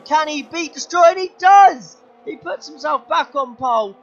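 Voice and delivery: rising question exploding into a loud high shout; building excitement. Real, not acted. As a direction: build the tension, then erupt. Rival takes pole live.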